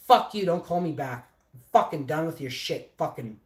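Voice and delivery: retold angry tirade, punchy start; unloading on someone. Young worker unloads on his boss by phone, angry rant. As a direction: let rip at the boss, re-enacted. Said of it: "I'm just, like, unloading".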